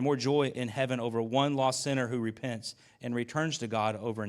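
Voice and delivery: steady reading of a Bible passage; scripture reading. Acted. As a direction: read the verses aloud to the congregation.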